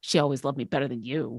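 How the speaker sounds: hushed, close half-whisper. Voicing a character in a stabby embrace with an enemy, half-whispering into his ear. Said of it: "I whisper into his ear".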